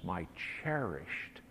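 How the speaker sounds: soft, hushed father's voice ending in a whisper; tender whisper. Acted. Father whispering tenderly to the son who rejected him. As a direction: breathe it to the son. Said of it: "this father looks at him and says".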